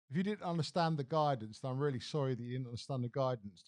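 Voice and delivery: lightly voiced politician, sarcastic fake apology; mocking the apology. Mocking the adviser's apology to viewers, a sarcastic fake sorry. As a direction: sneer the non-apology. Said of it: "I apologised if anyone".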